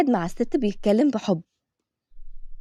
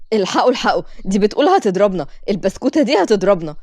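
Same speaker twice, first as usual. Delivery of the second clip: mocking. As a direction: scoff at the little girl's threat. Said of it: "فضلوا يضحكوا بسخرية".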